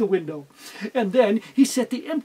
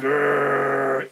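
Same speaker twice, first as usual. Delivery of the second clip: low growl; dog growl; 8 semitones lower than usual. Acted. Bulldog growling in the bag, low growl.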